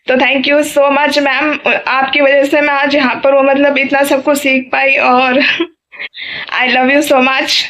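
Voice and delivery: slow, tearful thanks with a catch in the voice; emotional thanks. Real, not acted. Daughter thanking her old teacher on camera, tearful and slow. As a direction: thank her slowly, close to tears. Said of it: "मैं थोड़ा emotional हो गई".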